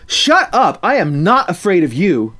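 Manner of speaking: high, loud angry shout; furious bully yell. Acted. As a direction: shove and shout back. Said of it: "angrily shouting".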